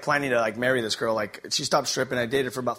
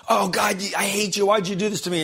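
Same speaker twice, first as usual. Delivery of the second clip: higher and louder, hammed-up railing at God; mock outburst at God; 7 semitones higher, 5 dB louder than usual. A man acting out how people yell at God, loud mock anger. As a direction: act out yelling at the sky, wounded and furious.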